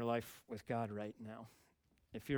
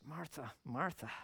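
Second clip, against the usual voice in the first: gentle; 3 semitones higher than usual. Retold or imitated. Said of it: "he says it with gentleness".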